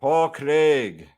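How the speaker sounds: name said in a put-on Scottish accent; deliberate, relished Scottish accent. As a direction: give it your best Scottish accent. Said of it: "with your best Scottish accent".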